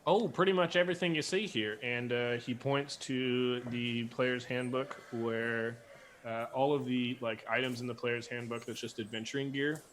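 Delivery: folksy Southern clerk musing; Southern accent. Acted. Georgia keeps talking.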